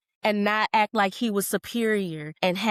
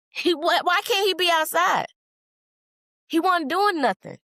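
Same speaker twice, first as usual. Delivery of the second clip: higher, heated protest; getting mad; 10 semitones higher, 3 dB louder than usual. Real, not acted. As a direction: push back with real anger. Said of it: "I'm not sorry for getting mad".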